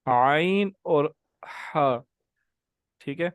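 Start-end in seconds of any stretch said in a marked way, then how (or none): 0.0-1.0 عین drawn out slowly from the throat; slow Arabic letter demonstration; slow letter demo. Shown as a demonstration. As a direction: say عین and اور slowly, stretching each sound. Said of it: "اب آپ نے نا عین اور غین کو ملا کے پڑھنا ہے".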